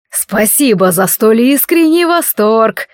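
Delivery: slow amused smirk; mocking chuckle. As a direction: say it with a light smirk. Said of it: "усмехнулся он".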